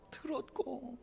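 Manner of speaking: a tender whisper. Acted. God telling Hezekiah he heard, whispered. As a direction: drop to a whisper on it. God's words, softened.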